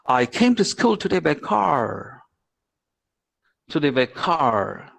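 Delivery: slow American accent, rounded R in car. Shown as a demonstration. Teacher demonstrating for students, slow American accent. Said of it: "an American will say that".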